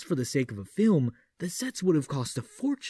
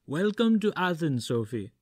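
gentle; 4 semitones higher than usual. A narrator's reading. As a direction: greet her kindly and gently. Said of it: "he said in a gentle voice".

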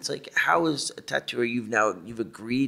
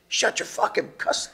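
mock scream; 11 semitones higher, slower than usual. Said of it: "you screaming at the piercer".

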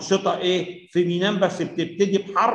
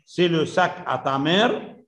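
slow reading; much slower than usual. Shown as a demonstration. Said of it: "teacher reads French sentence".

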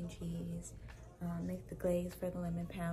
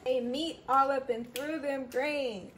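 excited; 5 semitones higher, 9 dB louder than usual. Real, not acted. Excited over the food.

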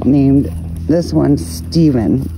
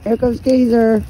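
excited high call; 8 semitones higher than usual. Real, not acted.

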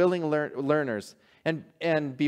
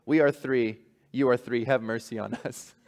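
gentle bishop. Acted. Humbled bishop gently telling fishermen to keep their prayer. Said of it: "Go back to your home".

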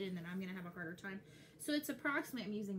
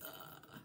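soft, breath-only groan; a quiet, drawn-out ugh of dread; acted groan; 11 dB quieter than usual. Fan on the precipice of the last season, soft groan.

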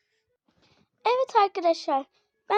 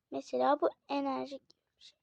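whispered aside; 2 semitones lower, 5 dB quieter, faster than usual. Real, not acted. Aside while showing item.

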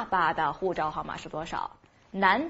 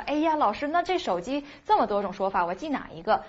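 mock student; 3 semitones higher than usual. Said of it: "好多同学就说".

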